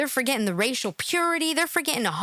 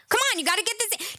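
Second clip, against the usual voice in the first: fast, higher mock coaxing; pushy sarcastic coaxing; mock coaching; 7 semitones higher, faster than usual. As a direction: egg her on like a prompter. Coaching a guest in mockery.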